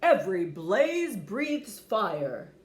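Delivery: slow, firm, lightly deepened dad; proud father dragon, slow and firm. Acted. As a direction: lay down the family rule. Father dragon lecturing son.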